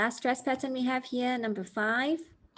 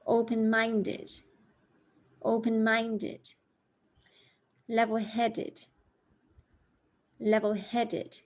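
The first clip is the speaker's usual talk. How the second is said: slow, clear four-syllable words; slow stress model; slower than usual. Shown as a demonstration. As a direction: read slowly for learners to repeat. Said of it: "I'm going to read these for you slowly".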